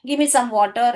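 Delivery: "water" with no s on the end; correct singular. Shown as a demonstration. Teacher repeating the model sentence for pupils, correct singular "water". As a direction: say "water" without a final s. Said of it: "ऐसे बोलना है".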